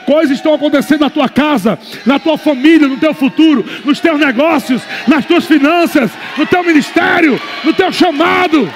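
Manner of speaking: fervent pulpit crescendo; building sermon. Acted. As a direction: preach it up to a shout. Preaching builds to full force.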